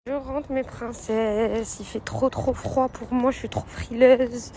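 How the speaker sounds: teeth chattering from the cold; shaky voice, freezing cold; shivering. Real, not acted. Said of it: "Vous entendez mes dents?".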